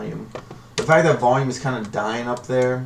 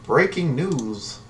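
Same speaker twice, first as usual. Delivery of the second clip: news anchor voice; 3 semitones higher, slower than usual. Pretend. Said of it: "Sound like a shitty news anchor".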